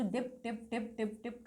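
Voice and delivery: short, soft, even drips; imitated dripping. Shown as a demonstration. Teacher showing water falling from eaves, soft repeated drips.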